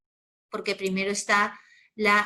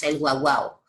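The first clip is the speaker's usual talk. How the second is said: lower, light mock bark of "guau, guau"; teacher mimicking how children say "guau, guau"; imitating a dog; 6 semitones lower, 4 dB louder than usual. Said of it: "como dicen muchos niños".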